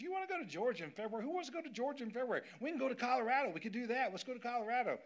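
high, fast, mock-incredulous friend voice. Friend on the phone scoffing at Georgia, pushing Colorado instead. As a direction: scoff at Georgia like a friend who can't believe it. The speaker mocking Georgia in February.

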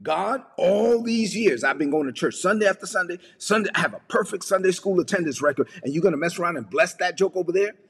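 acted aggrieved whine; self-righteous religious complaint. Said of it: "this is how some religious people are".

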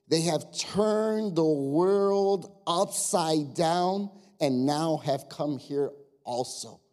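very slow, weighted verse reading; emphatic scripture reading. A narrator's reading. Preacher reading his favorite verse to church, slow and emphatic. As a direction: draw each word out to let the verse land.

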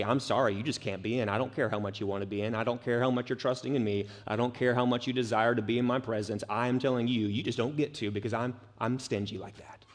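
fast, soft, dismissive rattle; offhand refusal. Acted. Imagined Jesus turning away sincere seekers, offhand and dismissive. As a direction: brush them off quickly, low-key. Voicing a stingy, uncaring refusal.

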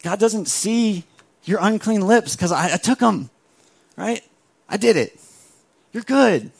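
Jesus hugs and reassures the guilty; tender reassurance. Retold or imitated. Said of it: "He says, he says".

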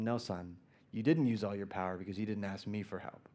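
low, soft fatherly correction; a hint of a smile in the father's voice; tender understated father; gentle father. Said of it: "with a smile".

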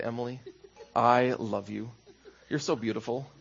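soft, tender, lovestruck words to a wife; soft and heartfelt, early in the marriage; tender devotion. Retold or imitated. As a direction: gaze at her and mean every word. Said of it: "I'd look her in the eyes".

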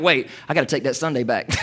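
tossed-off imitation of someone taking the gift back; mock churchgoer. Congregant mocked for returning gift.

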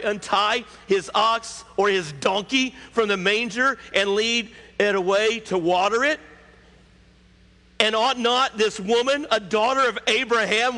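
high, insistent challenge; shouted rebuke. Acted. Jesus arguing for the woman, forceful rebuke. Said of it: "he just simply shouts out".

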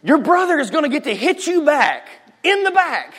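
put-on high, protesting teen; mock outraged objection; indignant brother. Older brother protesting to mom. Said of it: "And he was like".

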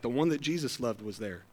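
murmured like a sly hint; sly quiet aside. Retold or imitated. Pastor voicing John slyly hinting it was him, hushed. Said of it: "he's like".

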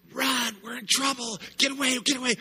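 put-on high, loud frantic kid voice; panicked kid shout. Kids yelling to each other to run, high and frantic. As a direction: urge the others to flee.

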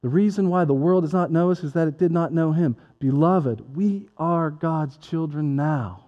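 ordinary talk, nothing marked

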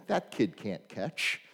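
deadpan, almost confiding; dry coach reply. Retold or imitated. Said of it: "And he said".

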